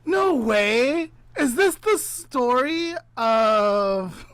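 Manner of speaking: real surprise, loud and high; surprised. Real, not acted.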